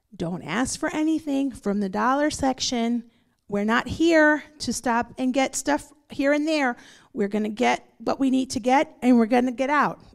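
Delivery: ordinary delivery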